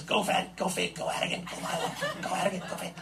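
strained hoarse calls to the sled dogs; hoarse mushing calls, voice giving out; hoarse yelling at dogs. Retold or imitated. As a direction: urge the dogs on with a worn-out voice. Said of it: "just hoarse".

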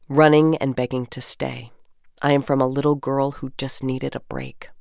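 measured, lyrical poem recital; poem reading. Acted. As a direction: read each line like a treasured memory. Reads community poem aloud.

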